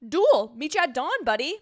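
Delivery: hammed-up dramatic declaration; drama queen challenge. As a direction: throw down the gauntlet theatrically. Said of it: "He's a drama queen".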